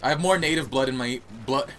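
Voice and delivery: put-on slips into a light British accent; unplanned hint of a British accent. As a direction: say it like a casual Brit. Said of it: "why I became British there for a second".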